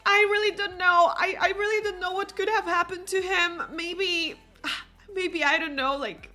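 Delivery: high, rushed, fretful mom voice; distraught mother. Pretend. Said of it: "Elsa's mom is like".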